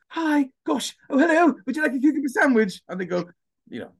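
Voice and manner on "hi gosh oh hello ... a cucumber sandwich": high, plummy posh English voice; posh English accent. Shown as a demonstration. Mocking how he sounds posh in Swansea, high plummy English accent. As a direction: put on a toffee-nosed English accent. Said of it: "in Swansea, I sound like this".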